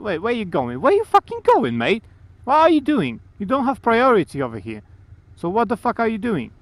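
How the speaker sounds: furious shout at the car cutting in; road rage shout. Real, not acted. Driver cuts in on rider.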